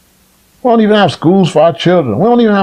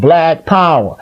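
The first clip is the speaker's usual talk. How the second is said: "black" hit harder than "power"; stress on black; slower than usual. Shown as a demonstration. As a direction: put the weight on "black" in "black power". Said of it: "all the emphasis is on the black".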